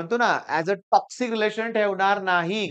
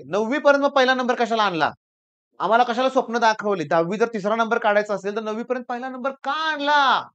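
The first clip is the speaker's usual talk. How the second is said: indignant parent demanding an explanation, imitated; retold parental scolding, somewhat raised; angry parent; 3 semitones higher than usual. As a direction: protest like an aggrieved parent. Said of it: "पालक चिडलेले होते".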